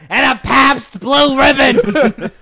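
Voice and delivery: slow loud suave spy; mock Bond order. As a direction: order it slowly like a smug spy.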